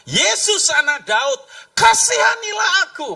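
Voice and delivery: high, loud imploring shout; crying out. Acted. Blind man calls to passing Jesus, desperate acted shout. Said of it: "dia teriak".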